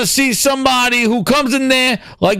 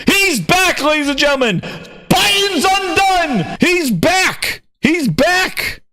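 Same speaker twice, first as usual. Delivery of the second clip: higher, drawn-out announcer hype; hype announcement; 6 semitones higher, slower than usual. Real, not acted. Streamer hyping Herman's entrance, excited announcer call. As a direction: announce him like a returning champ.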